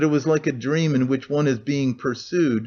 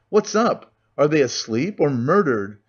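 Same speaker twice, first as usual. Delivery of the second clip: thick bawl. Acted. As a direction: yell it at the locked door, fed up. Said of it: "he bawled in a thick voice".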